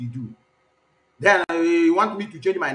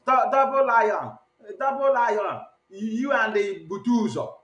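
higher, slow, mocking taunt of the name-caller; mocking name-calling; 4 semitones higher, slower than usual. Host mimics the woman calling out names in a mocking taunt. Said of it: "be calling names".

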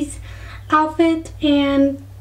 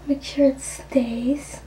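whispering; 6 dB quieter, slower than usual. Real, not acted. Unvoiced whisper mid tutorial.

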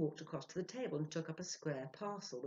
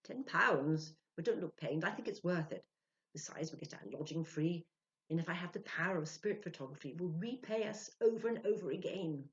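lightly voiced man, brisk and a bit louder; Ludwig, reassuring; 3 semitones higher, 5 dB louder than usual. Ludwig reassures thrifty Sylvia about the cost, lightly voiced. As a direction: brush off her worry about the money.

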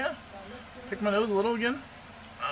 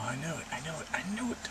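soft repeated murmur; 2 semitones higher, 8 dB quieter, faster than usual. Real, not acted. Repeating softly, rising each time.

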